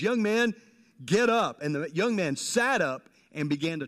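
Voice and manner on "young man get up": higher, louder command to rise; commanding call. Retold or imitated. Jesus telling the dead young man to rise, commanding. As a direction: call him up from the coffin. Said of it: "he says".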